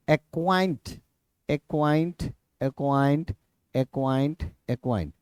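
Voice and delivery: acquaint said over and over, each time fading; spelling drill. Shown as a demonstration. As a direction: drill the word acquaint, again and again. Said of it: "acquaint repeated". (acquaint शब्द को बार-बार दोहराते हुए)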